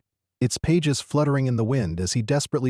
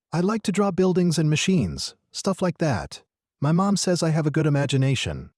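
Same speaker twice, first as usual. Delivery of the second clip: lightly voiced boy, higher pitch; shy young boy, proud; 5 semitones higher than usual. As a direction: share it like a modest kid.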